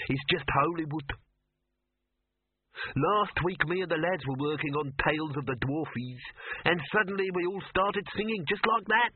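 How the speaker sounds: high, small dwarf voice. Acted. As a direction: chatter on as a little dwarf.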